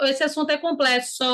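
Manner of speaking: COMPLEXO mispronounced as "com-ples-so"; wrong S pronunciation. Shown as a demonstration. Teacher rejecting a wrong reading, deliberately mispronounced. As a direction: say COMPLEXO with only S for the X. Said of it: "Ninguém aqui fala complexo".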